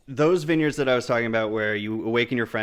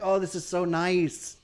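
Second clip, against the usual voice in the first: higher, drawn-out mild swoon; gushing delight; 5 semitones higher, slower than usual. Acted. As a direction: savour it, slow and high. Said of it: "you're like".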